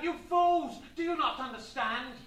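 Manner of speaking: mock outrage, starting high and loud; furious shout. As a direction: rebuke the crowd theatrically. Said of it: "He shouted out".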